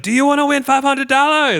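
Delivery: high, loud mock Asian-accented hawker; caricatured Asian accent, shouted pitch; thick Asian accent. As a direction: imitate a movie hustler in a thick Asian accent. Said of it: "thick Asian accent".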